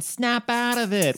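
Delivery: exaggerated Italian-American, high and loud; Italian accent. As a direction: belt it like a Brooklyn Italian. Moonstruck catchphrase, Italian accent.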